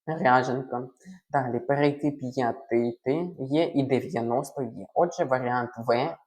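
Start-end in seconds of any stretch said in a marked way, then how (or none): 0.1-0.9 ряженка with a soft, palatalised R. Shown as a demonstration. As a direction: say ряженка with the first R softened before the vowel. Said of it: "далі вимова йде м'яка". (м'яка вимова «р» у слові ряженка)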